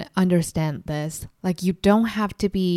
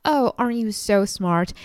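a slow, syrupy fake compliment, a bit higher; mock fake sweetness; 4 semitones higher than usual. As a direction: mimic a sarcastic adult pretending to be kind. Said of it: "and pretend to be like".

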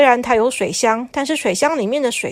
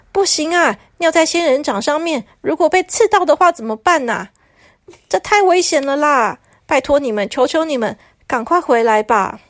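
higher, pleading envoy slowing at the end; lightly voiced desperate messenger; begging messenger; 3 semitones higher than usual. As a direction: beg them earnestly. Messenger begs toilets.

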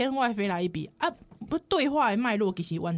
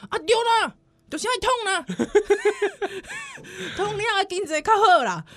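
mocking laugh; 8 semitones higher, 3 dB louder than usual. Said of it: "re-quoting the elder laughing".

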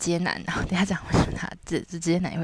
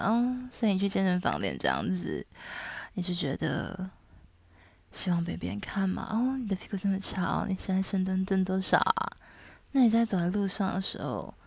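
teasing dominant; 3 semitones higher than usual. Retold or imitated. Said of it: "我很喜欢营造一个情境的感觉".

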